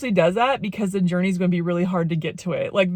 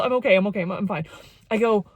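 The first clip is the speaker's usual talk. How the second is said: ordinary talk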